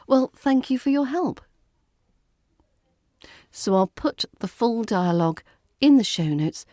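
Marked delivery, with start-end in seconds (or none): 0.1-1.4 well stretched for effect, icy civility; firm but polite. Acted. Traveller ending the exchange with frosty thanks to clerk. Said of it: "a firm but polite".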